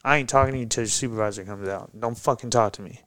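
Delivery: retold angry yelling.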